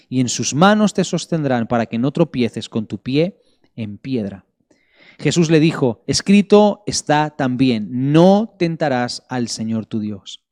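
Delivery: measured Bible reading with weighty pauses; scripture reading. Real, not acted. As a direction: read scripture aloud to a congregation, stretching the key words. Reads the Bible passage aloud. (lectura bíblica solemne y pausada)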